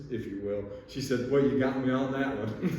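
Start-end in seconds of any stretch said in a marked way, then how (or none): 1.3-2.8 imitated gallery lady dropping into American; natural American accent, a little livelier. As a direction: drop the act into plain American. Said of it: "she said in a perfect American voice".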